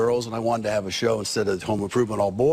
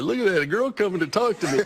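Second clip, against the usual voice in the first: imitated cocky heckler; 7 semitones higher than usual. Acts out the pleased heckler.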